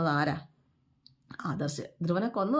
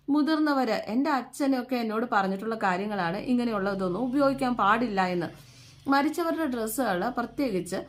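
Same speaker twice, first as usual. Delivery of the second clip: retelling the husband's angry warning in a raised voice; husband scolding; 4 semitones higher than usual. Retold or imitated. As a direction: lay down the rule to your wife, sharp and raised. Shankar scolds Gauri in retold quarrel.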